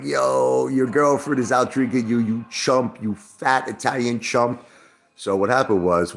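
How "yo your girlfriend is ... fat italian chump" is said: higher-pitched imitated jeering; lightly acted group taunt; mocking friends. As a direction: tease like buddies ribbing a friend, drawn out at the end. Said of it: "all my friends were laughing at me".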